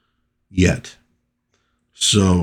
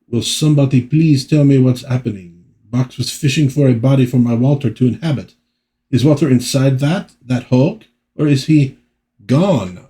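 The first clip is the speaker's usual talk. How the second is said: higher, pleading comic-book heroine; raised, anxious, dramatic plea; distressed lover; 4 semitones higher than usual. Acted. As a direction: demand answers in mounting distress.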